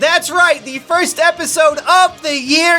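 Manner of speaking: high, bright announcer voice; big welcome to the show; show host intro. Acted.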